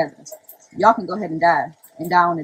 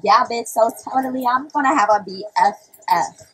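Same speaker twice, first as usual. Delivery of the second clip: lightly voiced gushing BFF type; half-mocking girly parody; mock girly talk; 2 semitones higher than usual. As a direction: put on a hint of ditzy best-friend chatter. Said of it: "What you want me to talk like?".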